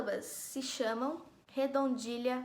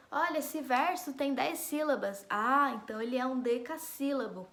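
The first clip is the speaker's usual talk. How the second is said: lightly acted dawning discovery, a little raised; imitating reader's realisation; 2 semitones higher than usual. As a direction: mildly play a reader working it out. Acts out a reader noticing the metre.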